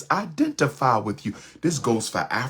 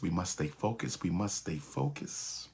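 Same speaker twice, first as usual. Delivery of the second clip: fading repetition; 6 semitones lower, 12 dB quieter than usual. Shown as a demonstration.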